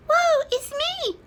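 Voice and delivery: high, loud hammed-up wail; mock woe. A narrator's reading. Smaller chicken mourns lost eggs, mock wail. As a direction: wail it like a melodramatic hen. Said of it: "clucked the smaller chicken".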